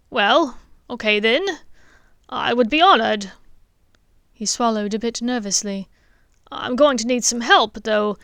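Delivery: father asks the headmaster eagerly; eager dentist. Acted. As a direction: push forward with an eager question. Richard accepts nervously.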